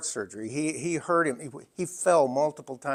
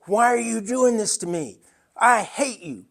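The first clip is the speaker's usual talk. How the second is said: higher, louder bitter accusation; imitating angry mother; 7 semitones higher, 5 dB louder than usual. Mother with dementia lashing out at her family, bitter and higher. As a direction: hurl it at them like a cornered parent. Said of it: "she went kicking and screaming".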